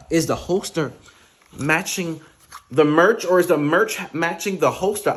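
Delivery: teasing the viewers about matching merch, playful; playful mock question. Real, not acted. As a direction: tease the audience about the merch.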